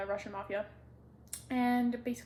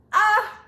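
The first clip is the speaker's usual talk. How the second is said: loud, high happy shriek; excited squeal; 10 semitones higher, 17 dB louder than usual. Real, not acted. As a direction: let out a thrilled fangirl squeal. Squealing over a beloved book.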